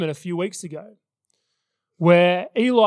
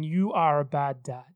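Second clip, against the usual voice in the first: voice of the lie; 4 semitones lower, 4 dB quieter than usual. Retold or imitated. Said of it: "lie that was going through my mind saying".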